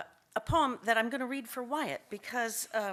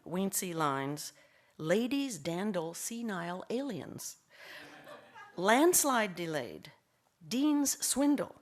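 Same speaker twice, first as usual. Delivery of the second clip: slow, measured verse with pauses; poetry reading; slower than usual. Acted. Poet reads playful name poem to audience, measured delivery. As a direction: give each line like a separate headline, slowly.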